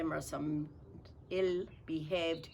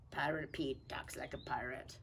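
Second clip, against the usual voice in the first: whisper; 3 semitones lower, 5 dB quieter than usual. Shown as a demonstration. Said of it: "whispered title".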